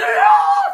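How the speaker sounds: high, loud panicked shouting.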